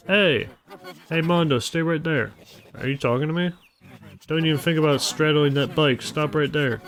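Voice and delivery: urgent shout to stay put; calling out to stop. Acted. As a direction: call him back sharply. Boss yelling to stop him.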